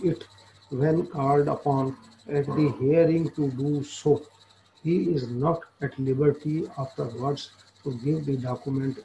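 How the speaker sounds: reading the law text aloud very slowly, word by word; slow statute reading. Acted. Lecturer reading the statute to law students, slow dictation. Reads the legal principle aloud.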